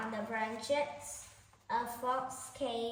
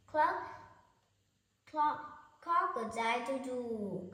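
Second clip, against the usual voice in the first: rooster crowing; 2 semitones higher, 3 dB louder than usual. Acted. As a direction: crow out to call the hens. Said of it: "called the old rooster".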